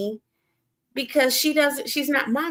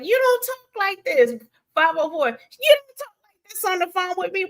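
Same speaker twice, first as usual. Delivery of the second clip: lightly imitated, higher-pitched complaint; Biz; 8 semitones higher than usual. Retelling Biz's objection to her phone talk, lightly mimicked in higher pitch. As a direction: quote the caller with pitch lifted. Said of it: "Biz was like".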